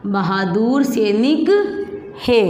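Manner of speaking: slow, syllable-by-syllable phrase; slow dictation. Shown as a demonstration. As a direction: dictate slowly for writing. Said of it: "बोलो बहादुर". (धीरे-धीरे वाक्य लिखवाना)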